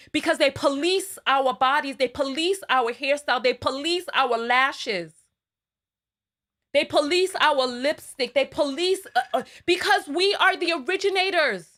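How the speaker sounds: emphatic loud rant. Real, not acted. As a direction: pound the word police like a list of charges. Ranting about policing black women.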